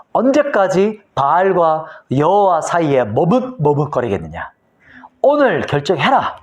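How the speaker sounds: slow, deliberate prophetic challenge; acted proclamation. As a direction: put the choice to the people, slowly and firmly. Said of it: "선택을 선포하죠". (선포하듯 천천히 힘주어)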